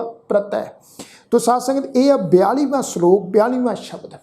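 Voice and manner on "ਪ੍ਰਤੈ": ਪ੍ਰਤੈ ending on an open "tai". Shown as a demonstration. Teacher showing how ਪ੍ਰਤੈ is read, ending "tai". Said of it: "ਇਸ ਸ਼ਬਦ ਦਾ ਪਾਠ ਉਚਾਰਨ ਹੋਏਗਾ".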